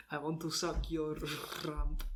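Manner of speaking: hammed-up, badly faked presidential impression; a comically wrong politician voice; Trump. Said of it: "Yeah, Trump".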